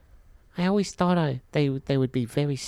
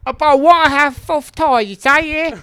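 high, loud squeaky voice; 12 semitones higher, 10 dB louder than usual. Acted. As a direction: squeak it out comically. High put-on voice mangling names.

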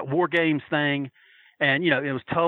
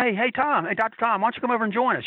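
raised high, calling out to a friend; retold call across the room; 6 semitones higher than usual. Fan calls Doctor Tom over to the table, high calling voice. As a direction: hail him over to the table. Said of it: "I yelled at him".

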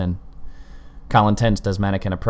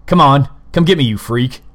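loud angry shout, higher; 6 semitones higher, 8 dB louder than usual. A narrator's reading. Colin shouting at the killer, angry. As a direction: hurl it at him, daring him. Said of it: "Colin shouted".

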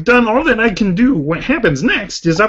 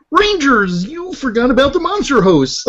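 Kermit the Frog; 5 semitones higher than usual. Acted. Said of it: "lines are now done by Kermit the Frog".

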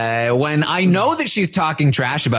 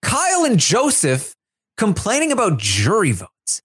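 higher pitched, hammed-up complaining rant; mock rant; 6 semitones higher than usual. Host replaying Michael's diary room rant, mock angry. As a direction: vent like a fed-up houseguest. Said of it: "That was the only part of the rant".

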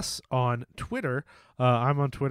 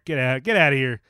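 mock shooing; 6 dB louder than usual. Mock shooing listeners away.

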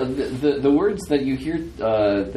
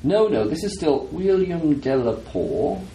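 slow, higher Southern gentleman, lightly voiced; Delapour; 6 semitones higher than usual. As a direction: insist slowly in a slight Southern voice. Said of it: "It's not Delapour's voice anymore".

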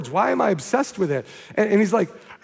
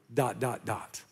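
much softer, lower, fading away; trailing dots; 7 semitones lower, 10 dB quieter, slower than usual. Acted. Preacher voices the missing words, fading soft. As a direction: let it trail off into nothing. Reading the torn scrap aloud.

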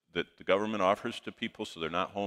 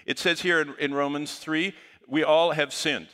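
retold scripture, louder and higher, in preacher mode; preaching it out; 7 semitones higher, 5 dB louder than usual. Youth pastor reading Romans to a mother, loud preaching. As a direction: lean into the verse like a youth pastor.

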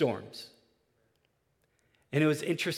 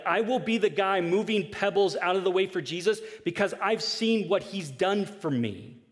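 passionate friend's words; 6 semitones higher, 4 dB louder than usual. Retold or imitated. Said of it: "he's like".

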